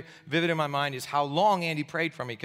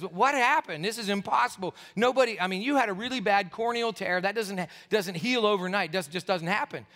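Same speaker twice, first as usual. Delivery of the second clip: retold baffled protest, pitched up; mock disbelief; 3 semitones higher than usual. Doctor to healed patient, mildly incredulous. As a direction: imitate a doctor who can't believe it.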